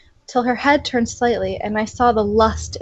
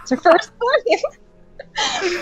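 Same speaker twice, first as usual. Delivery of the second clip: laughing; 9 semitones higher, much slower than usual. Real, not acted. Reader laughing at the story.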